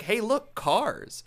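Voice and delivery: imitated excited discovery; mock eager student. Acting friend pointing at the shirt.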